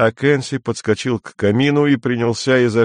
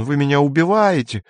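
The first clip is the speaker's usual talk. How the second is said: mock desperate cry; 5 semitones higher than usual. The speaker retells the censor being pushed out, crying out mildly. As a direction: imitate a victim's outcry mildly. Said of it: "кричал он".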